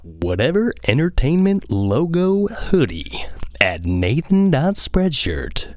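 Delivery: slow radio DJ plug that drops to a whisper at the end. Shown as a demonstration. Plugging his hoodie in a mock radio DJ voice. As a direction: linger on each word, then breathe the ending. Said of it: "That was good".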